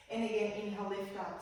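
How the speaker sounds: breathless from the backbends; out of breath. Real, not acted. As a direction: talk between heavy breaths. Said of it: "I'm out of breath".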